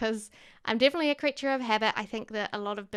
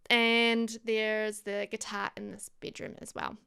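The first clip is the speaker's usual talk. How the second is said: hiccups. Real, not acted. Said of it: "Sorry, I'm just hiccuping".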